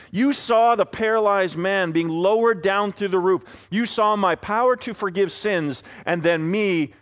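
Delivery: a light Jesus voice reminding his friends; voicing Jesus. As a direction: remind the disciples what they saw. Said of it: "He's saying".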